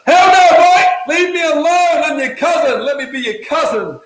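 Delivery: high, loud comic yell of refusal; hammed-up outraged cousin. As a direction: play a fed-up relative shouting someone off. Cousin's acted angry refusal of pitch.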